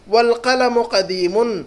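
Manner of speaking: والقلم قدیمن read slowly, every syllable clear; a careful model for learners to copy; slow Arabic model reading. Shown as a demonstration. Teacher reads Arabic phrase to class, slowly and clearly. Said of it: "لفظ ہے نیچے".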